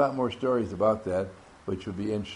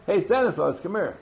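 higher mock call of a name; imitating someone calling Stanislaus; mock friend calling; 6 semitones higher than usual. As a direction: call him over like a friend. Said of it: "They call you Stanislaus".

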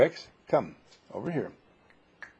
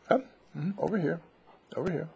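high-pitched call across the yard; calling from far away; 6 semitones higher, faster than usual. Real, not acted. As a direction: call out high to a distant dog.

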